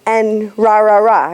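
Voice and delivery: "rah" with the throat shut, r from the lips; American r in "rah, rah"; lip r demo. Shown as a demonstration. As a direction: say "rah" from the front of the mouth. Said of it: "shut off your throat".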